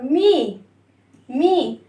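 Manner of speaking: "مي" with a long, clear ee; kasra vowel. Shown as a demonstration. Teacher having children listen to the broken sound, kasra vowel. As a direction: model each "مي" separately for the class. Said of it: "نكسر الصوت".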